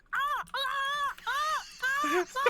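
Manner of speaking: high loud penguin squawks; squawky bouncy penguin. Acted. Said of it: "Gonna make me do a penguin impression".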